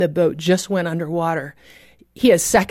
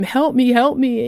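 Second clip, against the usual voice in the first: yelling; 5 semitones higher than usual. Retold or imitated. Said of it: "I'm yelling at him".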